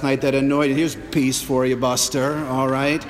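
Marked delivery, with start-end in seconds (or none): 0.8-2.4 snide mock peace. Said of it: "backhanding your husband".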